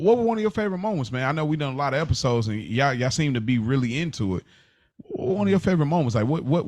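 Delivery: courteous, grateful question; polite, appreciative ask. Shown as a demonstration. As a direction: thank them first, then ask nicely. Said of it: "But if you say".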